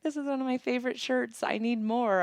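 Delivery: high-pitched gushing fan imitation; excited stranger. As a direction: imitate her gushing over the shirt. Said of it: "she was all excited".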